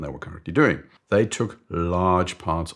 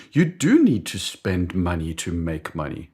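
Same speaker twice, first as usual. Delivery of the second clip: quicker, emphatic echo leaning on DO; convinced agreement; 4 dB louder than usual. Acted. Colleague agreeing with boss's maxim, eager mock conviction.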